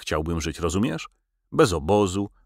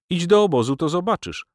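high-pitched, raised command; exasperated, higher-pitched comeback; impatient retort; 11 semitones higher, 4 dB louder than usual. A narrator's reading. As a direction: throw it back at the doubter. Stefan snaps back at doubter.

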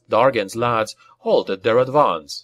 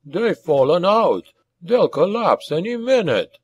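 high, wheezing dwarf voice; excited dwarf with a wheeze; wheezy glee; 7 semitones higher than usual. A narrator's reading. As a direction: wheeze it out, grinning at the coming win. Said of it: "wheezed Rodrin, grinning".

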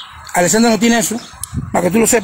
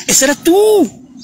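high, slow whimpering taunt; mock crybaby whine; 7 semitones higher, much slower than usual. Mocking crybaby repeat. (burla de llorona, aguda y lenta)

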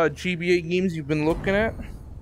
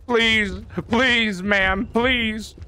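cartoon dog; 10 semitones higher, slower than usual. Begging enemy as a dog.

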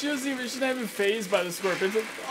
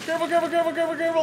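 higher, rapid nervous repeats; anxious urging; 6 semitones higher, 4 dB louder, much faster than usual. Real, not acted. Gamer frets at the climber on a ledge. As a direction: fret over every step.

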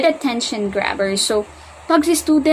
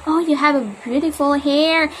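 friendly compliment; 3 semitones higher than usual. Shown as a demonstration. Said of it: "Dapat maki-friend".

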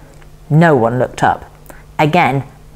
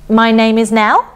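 put-on young girl; 6 semitones higher than usual. A narrator's reading. Girl starts introducing herself.

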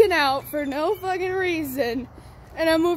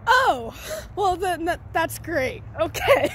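flustered relief; 3 semitones higher, 4 dB louder, slower than usual. Retold or imitated. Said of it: "And I'm like".

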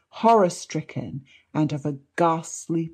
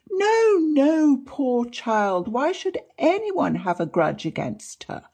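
put-on distressed old man; 9 semitones higher than usual. A narrator's reading. Distressed father protests.

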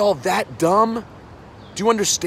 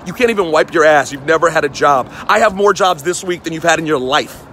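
loud angry rant; 4 dB louder than usual. Real, not acted. Rant insulting teenage Twitter critics.

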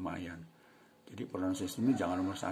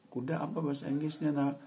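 mother asking; 8 semitones higher, 5 dB louder than usual. Acted. Ibu bertanya pada anak.

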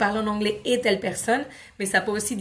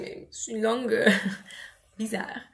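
put-on child's puzzlement; 4 dB quieter than usual. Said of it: "l'enfant va se dire".

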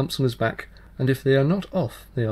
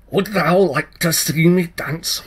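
higher, louder impish challenge; changeling child voice; 5 semitones higher, 8 dB louder, slower than usual. Acted. Fairy child challenges the tailor, higher and louder. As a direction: tease him with a cheeky dare.

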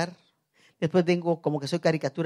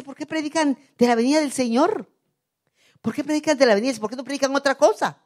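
high-pitched complaining question; mock complaint; 7 semitones higher, 4 dB louder than usual. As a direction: imitate people objecting to the preaching, pitched up. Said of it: "mucha gente no quiere oír esa palabra. Dice". (queja imitada, en tono agudo)

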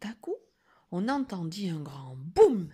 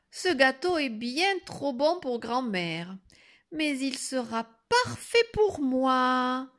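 a touch higher, drawn out at the end; lightly voiced greedy girl; 5 semitones higher, 3 dB louder than usual. Girl decides to keep grandmother's cake, mildly gloating.

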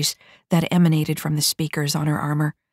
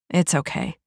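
softened tone. A narrator's reading. Silva forgiving the nervous private, softened. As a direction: ease off and reassure her. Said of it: "Silva's tone softened".

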